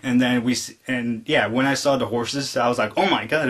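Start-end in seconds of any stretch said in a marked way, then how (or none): 3.0-3.5 higher-pitched excited exclamation; retold excitement. Viewer seeing the horses appear, retold excitement. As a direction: re-enact an amazed fan reaction.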